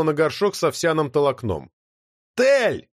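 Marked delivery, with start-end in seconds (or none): 2.4-2.9 high calling shout from upstairs. A narrator's reading. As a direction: call her name in alarm. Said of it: "раздался крик". (громкий тревожный крик)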